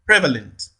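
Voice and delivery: Prevalent with PRE prominent, falling after; stress on first syllable. Shown as a demonstration. Teacher models option A, Prevalent stressed on PRE. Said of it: "primary stress falls on the first level".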